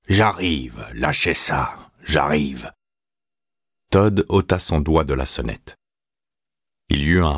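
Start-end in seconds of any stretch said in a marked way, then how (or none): 0.1-2.7 grumpy whiny tone. A narrator's reading. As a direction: grumble it, irritated and tired. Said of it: "cria d'un ton géniard".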